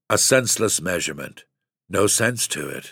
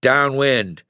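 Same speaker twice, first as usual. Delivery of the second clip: a sharp shout, higher and louder; 6 semitones higher, 4 dB louder than usual. Acted. Father turning boys toward the skiff, loud shout. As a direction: fling the word out angrily.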